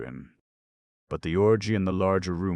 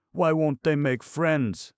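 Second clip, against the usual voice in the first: much higher, louder cry; high plaintive cry; 13 semitones higher, 8 dB louder than usual. Acted. Grushenka cries out.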